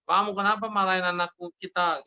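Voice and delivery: understated mock reproach; mock scolding mother. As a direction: lightly imitate a wife telling off her husband. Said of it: "mamanya balik lagi marahin papanya".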